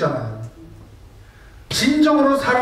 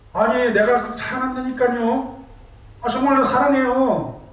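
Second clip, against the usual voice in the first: flustered husband insisting; 6 semitones higher than usual. Retold or imitated.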